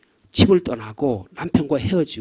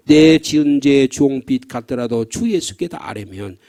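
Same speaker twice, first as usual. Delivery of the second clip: solemn hymn recitation; 3 semitones lower, 4 dB louder, slower than usual. Shown as a demonstration. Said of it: "사백십삼 장의 고간에는".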